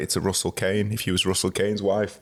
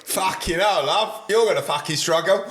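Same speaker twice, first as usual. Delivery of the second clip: higher, jokey put-on inmate; hardened cellmate; 6 semitones higher than usual. Cellmate answering new arrival Tiffany, hammed-up disbelief. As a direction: play the unimpressed cellmate, ending in laughter.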